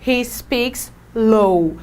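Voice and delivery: slow, careful English model sentence. Shown as a demonstration. Teacher modelling English for class, slow and careful. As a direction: spell it out slowly for the students. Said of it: "Ou ele fala baixo".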